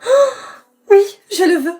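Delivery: high, loud gasp into a yes; hammed-up swooning acceptance; mock gasp of delight. Girl pretending a dropped item is a proposal, gasping yes.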